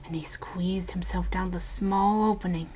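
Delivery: hushed ghost-story telling, dropping to whispers; eerie storyteller voice, sinking into whispers at the grim parts; spooky story narration. Acted. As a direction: tell it like a campfire ghost story. Spooky ghost story told to friend.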